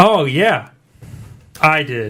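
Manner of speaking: overexcited, loud, high-pitched yelling. Answering whether anyone had anything exciting happen last week, yelling. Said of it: "are you yelling?".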